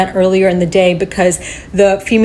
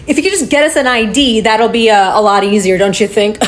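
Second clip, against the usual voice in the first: imitating a snide cop, chuckle at the end; snide retold request. Officer asking her for an ID, imitated snidely.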